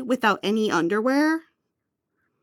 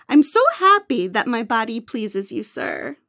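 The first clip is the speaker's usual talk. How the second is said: cowed obedience. Acted. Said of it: "How am I supposed to sound like an obedient servant".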